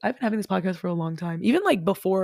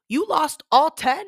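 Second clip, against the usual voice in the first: high, loud outraged question; can't believe all ten are gone; shocked disbelief; 8 semitones higher, 6 dB louder, slower than usual. Retold or imitated. To the airline staff, shocked and indignant.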